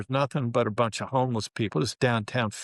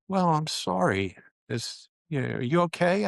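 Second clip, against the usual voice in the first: concerned parent; 5 semitones higher than usual. Retold or imitated. Parents voiced on phone call.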